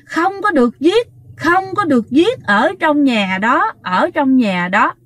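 retold stern prohibition, slowing at the end; very angry. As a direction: forbid it as an angered spirit, mildly acted. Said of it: "thái độ rất tức giận". (giả giọng tức giận cấm đoán)

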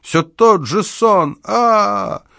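slow, high howl of fright ending in a scream; terrified wail. Acted. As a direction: flee from a nightmare. Old man stumbling out, terrified. (испуганный вопль)

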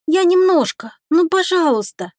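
put-on small boy begging to stay; pleading child. A narrator's reading. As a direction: plead sweetly like a little kid. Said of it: "просящее выражение".

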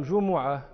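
جمعة said "JU-mu-'a", u after the m; damma on the mim. Shown as a demonstration. Teacher listing the word's three vowellings, جمعة as "jumu'a". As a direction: sound جمعة with a short u on the mim. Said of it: "تثليث للحركة، فهي مح-، مثلثة الميم".

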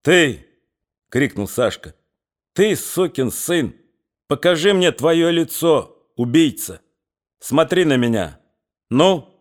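stern, forceful accusation; weighty commanding voice. Acted. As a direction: face down a murderer. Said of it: "может говорить так веско и властно".

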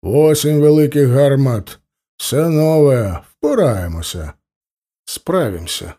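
lightly voiced Cossack, unhurried Ukrainian; a touch of a steady old Cossack reassuring an officer; Ukrainian-speaking Cossack, calm; Cossack sergeant voice.

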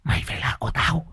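high, eerie hungry ghost voice; a starved spirit crying out; hissing ghost. A narrator's reading. Ghost girl chasing the young man, high eerie hiss. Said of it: "vừa rít lên".

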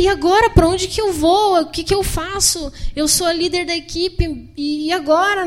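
a team leader suddenly lost; panicked outburst. Retold or imitated. Panic on arrival in Morocco.

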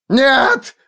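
high, crying shout of no; hysterical cry. Acted. Forrest in hysterics under Foyle's pressure, crying shout. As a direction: break into a wailing no. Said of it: "надрывался Форест".

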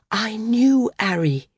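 slow, gently stretched words; said softly. A narrator's reading. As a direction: say it gently, drawing it out. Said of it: "Maris said softly".

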